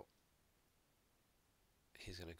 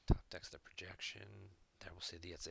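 whispering. Real, not acted. Muttering aside while play runs.

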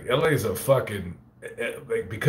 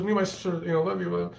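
put-on girl fan; 7 semitones higher, 3 dB quieter than usual. Girl at the Fresno cemetery stops him, high imitated girl voice. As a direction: put on a polite young woman's voice, pitched up. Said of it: "She goes".

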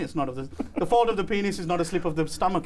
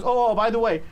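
rushed dad; 5 semitones higher, 3 dB louder than usual. Retold or imitated. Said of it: "'cause he was rushing to get it out".

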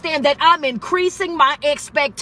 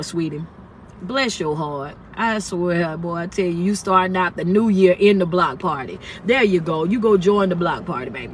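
teasing auntie voice; 5 semitones lower than usual. Acted. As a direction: drop into a doting auntie who calls everyone baby. Teasing aside to the audience.

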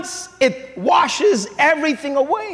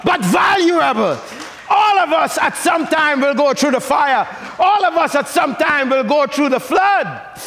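preaching; 3 semitones higher than usual. Acted. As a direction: preach it with full force.

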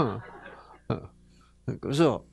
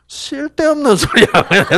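Gyeongsang husband gruff; 10 semitones higher, 5 dB louder than usual. Retold or imitated. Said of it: "경상도 남자들은 뭐라 그러게".

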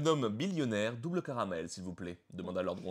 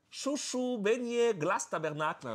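vendor calling; 11 semitones higher, slower than usual. Acted. Beach vendor calling out her snacks, very high singsong. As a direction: cry out your wares across the beach. Vendor call redone, Quebec accent.

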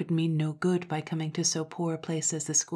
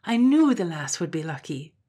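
delighted cry; 7 dB louder than usual. Acted. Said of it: "cried Granny".

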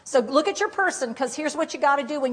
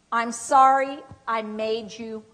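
sincere apology; slower than usual. Shown as a demonstration. Models an apology to repeat.

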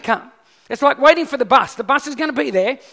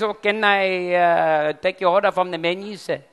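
lightly put-on French waiter; hesitant attempt at a French accent, a bit low; 4 semitones lower than usual. Waiter taking an order at a French restaurant, mock French accent. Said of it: "that's my best French accent".

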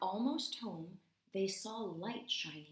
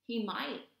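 yelp; 3 semitones higher, 4 dB louder than usual. Acted. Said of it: "yelped the squirrel".

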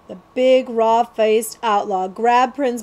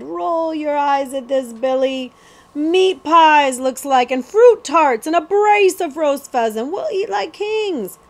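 higher, louder, greedy delight; gloating outlaw; 6 semitones higher, 5 dB louder than usual. Acted. Cutwater gloats over the stolen food to Billy, delighted. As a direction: list the treats like treasure.

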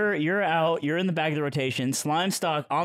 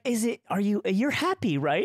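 worried reassurance; 6 semitones higher than usual. Retold or imitated. Retelling reassuring a crying friend.

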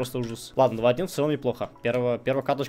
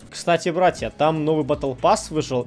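рекламная вставка; 3 dB louder than usual. Acted. Реклама промо в начале видео.

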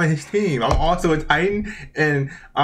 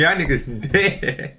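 blunt retold verdict; slower than usual. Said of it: "the nigga just told me".

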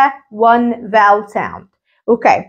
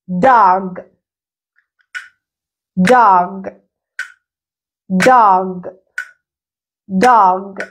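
DOG said as one unbroken, lower falling syllable; dog as one whole syllable, pitched down; one-beat word; 6 semitones lower, much slower than usual. Shown as a demonstration. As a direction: say DOG in a single beat, dropping low. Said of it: "هل هنا أنا قلتها على كذا مرحلة؟".

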